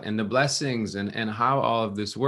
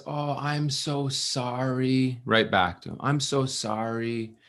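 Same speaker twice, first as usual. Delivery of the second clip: softened cook apologizing tenderly; sweet apology; 3 semitones higher, slower than usual. Retold or imitated. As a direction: say it gently back to him. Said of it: "now she's just a sweet person".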